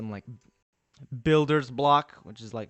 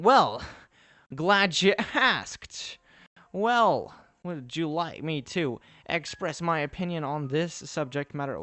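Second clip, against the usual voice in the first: pompous voice; 3 semitones higher, 3 dB louder, slower than usual. Pretend. Answering chat in a pompous voice.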